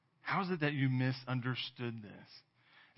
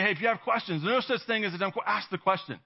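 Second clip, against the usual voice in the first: higher-pitched, insistent urging; pressing; 6 semitones higher than usual. Retold or imitated. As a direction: retell a trainer pushing the point. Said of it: "kept pressing it, pressing the idea".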